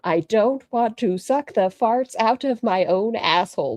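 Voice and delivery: slow, drawn-out mock repeat; slow mocking quote. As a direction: parrot it back in disbelief. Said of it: "Well, that's wild".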